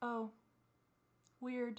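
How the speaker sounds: mock deadpan, flat, level monotone. Imitating how she reacted to something she didn't get: imitating her flat "weird" tone. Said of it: "just in that tone".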